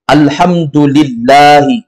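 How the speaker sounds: very slow, drawn-out Arabic reading; model reading. Shown as a demonstration. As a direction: stretch each syllable for the class to follow. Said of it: "kita ikuti lagi". (bacaan contoh sangat pelan)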